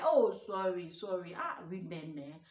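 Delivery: lightly hammed-up wounded man, sighing sorry; mock self-pity. Boyfriend whining to his followers, a mild mock pity act. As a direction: play the boyfriend fishing for sympathy online. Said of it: "you see that guy".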